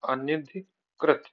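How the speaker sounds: slow अनधिकृत, broken into parts; corrected form. Shown as a demonstration. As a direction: spell out अनधिकृत slowly in chunks. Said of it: "अनधिकृत नहीं". (अनधिकृत, धीरे-धीरे तोड़कर)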